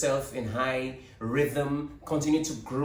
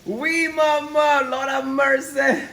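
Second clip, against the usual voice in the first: high, drawn-out dismay; slow dismayed exclamation; 11 semitones higher, 4 dB louder, much slower than usual. Real, not acted. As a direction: stretch it out in disbelief.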